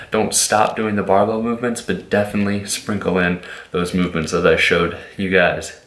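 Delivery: breathless from excitement; out of breath. Real, not acted. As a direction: talk while short of breath. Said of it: "I'm getting out of breath".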